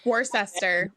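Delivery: "Worcester" sounded out as wor-SESS-ter; joke mispronunciation. Pretend. Co-host joking about the spelling, "Worcester" said as wor-SESS-ter. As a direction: read "Worcester" as spelt, in three syllables.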